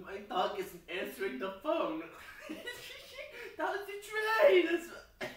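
can't stop laughing while talking; giggling. Real, not acted. Giggling through silly lines.

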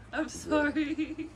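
laughing apology. Real, not acted. Laughing apology to person just sprayed.

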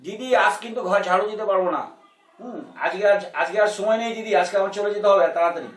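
a light imitation of a Kolkata-style maid; lightly voiced housemaid; TV-drama maid voice. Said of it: "কাজের মেয়ে বলতেছে".

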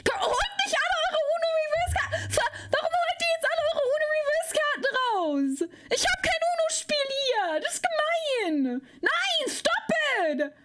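high crying whine; whiny protest. Acted. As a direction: wail it like a sulking child. Whiny protest about Uno cards. (hohes weinerliches Jammern)

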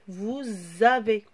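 "Vous avez" with a distinct z joining "vous" to "avez"; liaison demo. Shown as a demonstration. Teacher modelling the liaison for the class, "vouz-avez". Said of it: "On le prononce Z".

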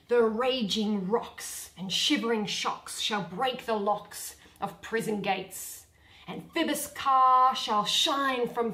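slow, ranting Ercles verse; lofty tyrant verse. Acted. Bottom shows off his tyrant's vein to the players, slow and grand. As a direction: declaim it grandly and slowly. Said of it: "That was but lofty".

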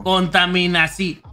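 "contaminación" drawn out slowly, syllable by syllable; imitating Juan. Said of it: "Así le hacía Juan". (imitando a Juan, "contaminación" lenta y silabeada)

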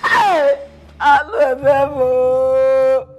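sobbing lament for her husband; wailing widow. Acted. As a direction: cry out his name in grief.

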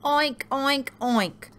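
high pig oinks; snorting pig. A narrator's reading. Storyteller as Pig, high snorting oinks. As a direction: oink in short high bursts. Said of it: "snorted Pig".

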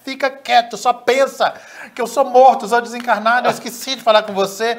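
high, loud, insistent aside; acted urgent explanation. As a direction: urge him to shut up and think. Spirit urgently hushing the narrator.

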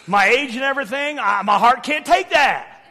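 loud, worked-up husband's protest; mock indignant complaint. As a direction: protest after being scared awake. Acts scolding wife after scare.

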